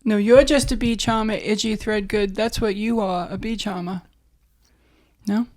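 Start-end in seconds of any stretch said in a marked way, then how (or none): 0.0-4.0 half-committed Southern movie quote; Southern accent with r-less "charmer". Acted. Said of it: "I can't even go full Southern".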